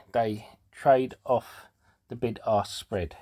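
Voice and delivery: breathless after a workout; catching breath between words. Real, not acted. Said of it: "Sorry, I seem out of breath".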